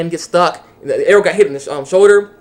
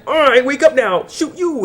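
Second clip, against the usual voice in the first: higher, lightly voiced controlled girl; mock cold command; 9 semitones higher, slower than usual. Controlled girl ordering the attack, higher mock voice. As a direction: bark the order flatly. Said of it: "And she's like".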